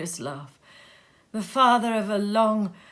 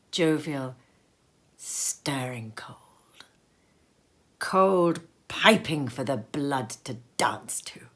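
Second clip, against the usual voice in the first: awed whisper; 6 semitones lower, slower than usual. A narrator's reading. Narrator savouring the clear morning, whispered. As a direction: breathe the cold air in wonder.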